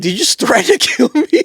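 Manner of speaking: high-pitched disbelieving question; reenacted shock at a threat; incredulous retort. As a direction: retell it as stunned disbelief, pitch way up. Retelling his shocked reply to threat.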